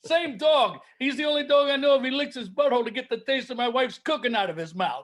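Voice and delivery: lightly voiced put-upon comic; hint of an old-school club comic; Rodney impression. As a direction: trade one-liners as a no-respect comedian. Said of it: "is it time for dueling Rodneys".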